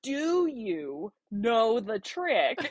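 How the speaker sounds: put-on slow, stretched country accent; mock country accent repeated in disbelief; echoed country accent. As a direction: parrot the country caller word by drawn-out word. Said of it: "repeats it back to me".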